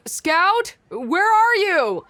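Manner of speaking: high, drawn-out searching call. Acted. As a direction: call for someone who is missing. Calling out to missing Scout.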